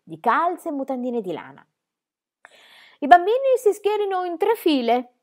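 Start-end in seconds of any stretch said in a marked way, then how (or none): 3.0-5.1 put-on loud, high call to the children; shouting. A narrator's reading. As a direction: bark the order across the room. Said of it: "gridò".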